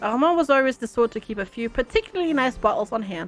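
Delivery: calm, even storyteller read; story narration. Acted. Streamer reading the game's story to viewers, narration voice. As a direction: narrate the morning like a novel.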